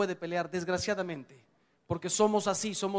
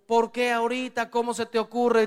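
mock scolding shout, higher and louder; imitating yelling wife; 5 semitones higher, 5 dB louder than usual. Preacher imitating an angry wife, mock shouting. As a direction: play the wife shouting at her husband. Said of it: "Viene tu mujer gritando".

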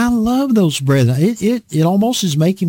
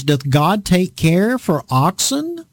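slow, weighty biblical question; poetic King James; 3 semitones higher, slower than usual. Acted. Preacher quoting Paul in King James style, slow. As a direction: intone it like old scripture. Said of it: "this very poetic King James way".

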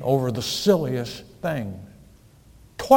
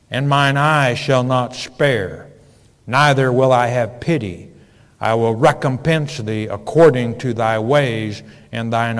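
scripture reading. Acted. Reads scripture loudly.

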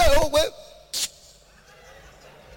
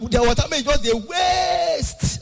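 shout; 6 semitones higher, much slower than usual. Acted. Shouting at landlord in story.

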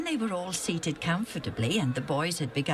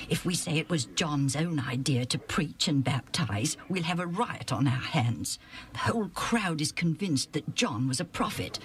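scheming elders. Acted. Sanhedrin members huddling to dodge the question, a hint of worry. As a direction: mutter it like worried schemers.

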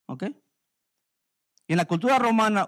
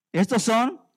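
proclaiming verse; 3 semitones higher, 6 dB louder, slower than usual. Real, not acted. Preacher leads congregation in verse.

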